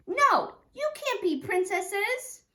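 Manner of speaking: high, loud, slow bossy no; child shouting no at a friend; insisting shout. Acted. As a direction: boss the friend around loudly. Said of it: "I kept saying".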